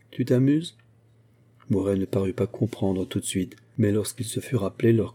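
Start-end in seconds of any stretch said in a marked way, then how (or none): 0.1-0.8 mocking. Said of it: "de sa voix goguenarde".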